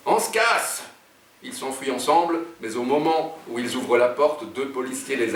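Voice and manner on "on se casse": high-pitched call to flee; crying out. A narrator's reading. Jean tells his partner to run, crying out. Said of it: "alors Jean crie".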